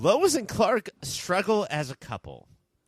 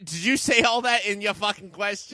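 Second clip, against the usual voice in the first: Louie; 2 semitones higher than usual. Acted. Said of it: "my voice is so much different than Louie".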